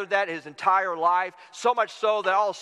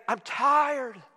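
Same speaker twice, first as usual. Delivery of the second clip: raised-pitch complaint; mock weary protest; 4 semitones higher than usual. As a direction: act out a worn-out objection. Listener protesting to God.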